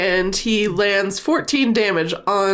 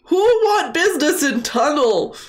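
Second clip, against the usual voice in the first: dopey cartoon bellow; 6 semitones higher than usual. Giant demands.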